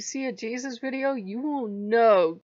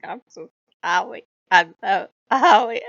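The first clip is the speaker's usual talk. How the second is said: crying apology; 11 dB louder than usual. Retold or imitated. Loki begging her forgiveness, sobbing. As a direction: sob out the apology like a guilty pet begging.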